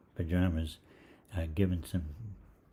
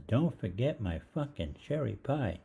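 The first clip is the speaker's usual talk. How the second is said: put-on kid mouthing off; 5 semitones higher, slower than usual. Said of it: "And the voice says".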